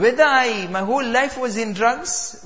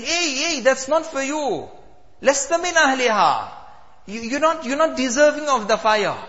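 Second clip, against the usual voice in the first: higher voice warning him off the pit; calling out; 4 semitones higher than usual. Acted. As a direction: call out to stop him. People call out at fire pit.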